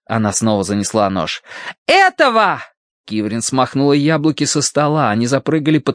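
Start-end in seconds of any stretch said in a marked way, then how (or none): 1.9-2.6 high, loud shout. A narrator's reading. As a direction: bark the word out hard. Attacking rats with knife. (крик)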